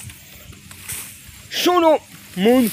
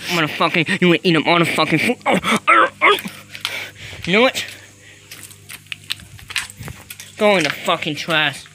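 slipping into a lower rapper voice; a rapper's voice; 6 semitones lower, 3 dB quieter than usual. Acted. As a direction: play the rapper, pitched down, menacing. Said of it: "I sound like a fucking rapper".

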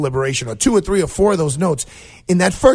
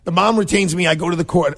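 ordinary talk, nothing marked

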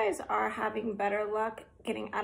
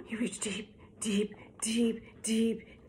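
hushed suspense; 4 dB quieter than usual. Acted. Suspense in reading.

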